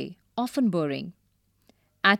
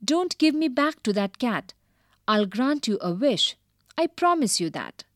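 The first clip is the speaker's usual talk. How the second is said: yelling; 4 semitones higher than usual. Acted. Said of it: "He yelled".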